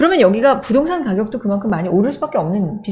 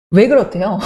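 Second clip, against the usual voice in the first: ordinary talk, nothing marked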